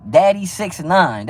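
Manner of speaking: slow, drawn-out mocking repeat; mocking drawl. Real, not acted. Streamer mocks a viewer's suspect name, slow and drawn out. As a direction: stretch the name out to ridicule it. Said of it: "That's, that's suspect, man".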